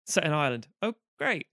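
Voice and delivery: high, sneering mockery of a cheesy Irish film; sarcastic mock voice of the film. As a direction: roll your eyes at the clichés as you say it. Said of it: "the film was like".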